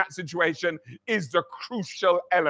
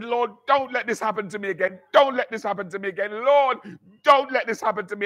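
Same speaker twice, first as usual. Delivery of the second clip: pleading prayer; 3 semitones higher, faster than usual. Retold or imitated. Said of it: "and I'm crying".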